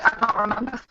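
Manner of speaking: glitchy robotic call audio; distorted, like a broken mic. Real, not acted. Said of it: "Total robot voice".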